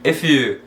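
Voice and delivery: "if you" run together as one word; linked pronunciation. Shown as a demonstration. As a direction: join "if" straight onto "you". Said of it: "Lembrando de juntar a pronúncia".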